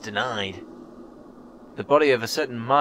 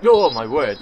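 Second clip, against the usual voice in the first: scared; 9 dB louder than usual. Real, not acted. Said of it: "that terrified me".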